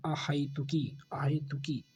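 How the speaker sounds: अहेतुकी whispered softly; whispered model word. Shown as a demonstration. Teacher whispering the correct word to the class, softly. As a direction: breathe अहेतुकी out unvoiced. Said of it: "अहेतुकी में ऐ की मात्रा आएगी".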